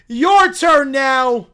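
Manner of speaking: loud, drawn-out call; shouted command. Acted. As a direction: order it slowly at full voice. Acted character orders a turn.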